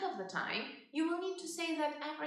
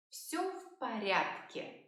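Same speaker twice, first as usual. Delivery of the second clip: slow model phrase; slower than usual. Shown as a demonstration.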